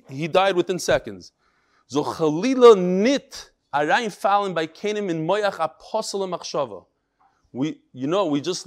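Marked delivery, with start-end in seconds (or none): 1.9-6.8 Litvish Yiddish. Retold or imitated. Rabbi reads a martyr's last words to his class, Litvish Yiddish. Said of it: "in the Litvish Yiddish".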